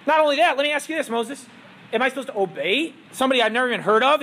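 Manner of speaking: mocking and quick, playing to the room; sarcastic Pharaoh. Pharaoh mocks Moses before his court, sarcastic. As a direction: scoff at an unknown god's name. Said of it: "loud enough and sarcastically enough".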